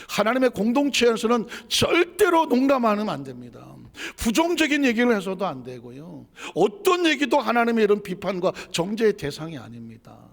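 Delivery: full-voiced emphatic preacher; forceful preaching. Real, not acted. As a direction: lay down the rule to the congregation.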